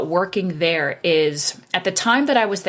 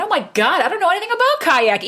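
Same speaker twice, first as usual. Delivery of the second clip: high, rushed mock panic; retold panic; 10 semitones higher, faster than usual. New salesperson facing a kayaking place to call, retold panic. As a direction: blurt it out high and fast, as if panicking.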